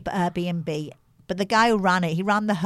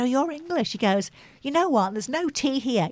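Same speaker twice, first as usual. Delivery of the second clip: quoting the guy; 6 semitones higher, 4 dB quieter than usual. Retold or imitated.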